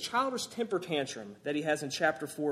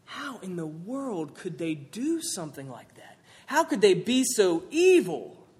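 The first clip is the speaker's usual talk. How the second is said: shocked churchgoer. Retold or imitated. Preacher imitating people shocked at the news, lightly. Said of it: "we say things like this".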